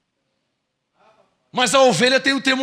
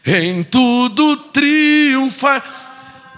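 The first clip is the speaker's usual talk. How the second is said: fervent declaration; 4 dB louder, much slower than usual. Retold or imitated. Believer proclaiming to the church, slow and fervent. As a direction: declare each phrase with full conviction. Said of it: "Tá percebendo?".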